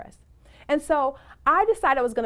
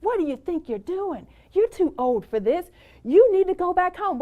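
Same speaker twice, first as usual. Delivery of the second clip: higher, a mildly mocking doubtful inner voice, louder at the end; lightly voiced inner critic that grows louder; nagging inner voice; 7 semitones higher, 5 dB louder than usual. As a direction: voice the negative thoughts telling her to quit. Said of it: "thoughts ... replaying themselves".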